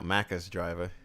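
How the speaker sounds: "Macca's driver" slow, syllables stretched out; slow, drawn-out Minnesotan "Macca's"; drawn-out pronunciation. Real, not acted. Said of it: "sounds like you add, like, an extra seven syllables".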